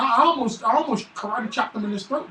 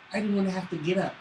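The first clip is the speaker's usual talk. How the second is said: whiny little son; 6 dB quieter, faster than usual. Retold or imitated. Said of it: "That's really how my son sounds".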